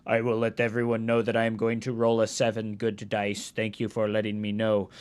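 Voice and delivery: low, monotone mock-hypnotized reply; put-on low, dutiful drone; entranced obedience. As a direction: answer the dice like an obedient zombie. Answers the dice in entranced voice.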